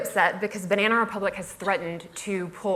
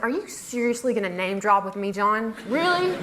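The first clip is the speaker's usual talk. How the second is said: mock indignant; 3 semitones higher than usual. Blogger retorting to name-dropping boss, mock indignant.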